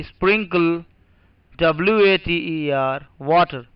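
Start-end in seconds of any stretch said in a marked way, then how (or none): 1.6-3.7 slow spelling. Shown as a demonstration. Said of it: "दूसरा लिखिए".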